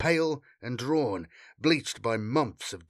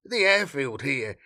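high, hesitant voice full of uhs; nervous, trailing off; 6 semitones higher than usual. A narrator's reading. Frightened local explaining the collapse to a Marine, nervous and faltering. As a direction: explain falteringly, losing your nerve. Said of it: "he trailed off, his frayed nerves robbing him".

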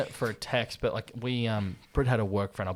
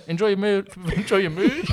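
imitating drive-thru worker; 9 semitones higher, 3 dB louder than usual. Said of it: "I do that pretty much every time".

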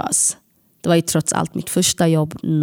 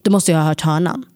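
firm voice. Retold or imitated. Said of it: "med en bestämd röst".

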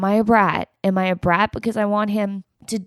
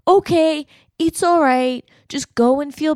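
mock compassion; 6 semitones higher than usual. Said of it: "compassionate and empathetic".

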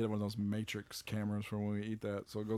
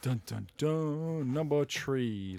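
slow, suspenseful countdown; dramatic announcement; 3 semitones higher, much slower than usual. Pretend. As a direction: draw out the reveal with mock suspense. Dramatic drumroll reveal.

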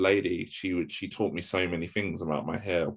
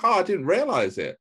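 retold surprise; 12 semitones higher, 5 dB louder than usual. Acts out own surprise at news.

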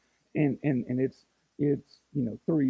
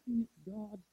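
grumbled complaint; 7 semitones higher, 9 dB quieter than usual. Retold or imitated. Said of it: "And I'm like".

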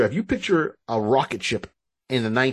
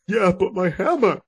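higher, put-on whiny Thor; 7 semitones higher than usual. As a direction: whine over the hammer. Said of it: "It's like".

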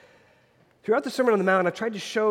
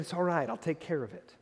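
kind and gentle; 7 dB quieter than usual. Retold or imitated. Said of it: "She very kindly and gently said".

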